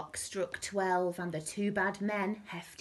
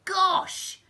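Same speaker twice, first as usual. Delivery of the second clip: loud, high shocked thief; high-pitched burst of shock; startled exclamation; 13 semitones higher, 7 dB louder than usual. A narrator's reading. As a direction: gasp it out loudly. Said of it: "And Len said".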